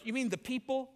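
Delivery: high, incredulous protest; indignant Jonah. Acted. Jonah protesting God's command, indignant and incredulous. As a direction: refuse the order in disbelief. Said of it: "And Jonah goes".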